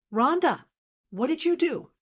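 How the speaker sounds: a narrator's restrained version of a shriek; mild panicked shriek. A narrator's reading. Caller confronts Rhonda over what she did, mildly panicked shriek. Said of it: "It was a shriek".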